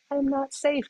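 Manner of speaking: the amygdala yelling in panic; mock yell. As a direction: shout it like an alarm in your head. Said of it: "amygdala is yelling at us".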